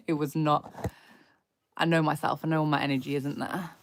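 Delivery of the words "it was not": laughing at herself. Real, not acted. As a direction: laugh through the words.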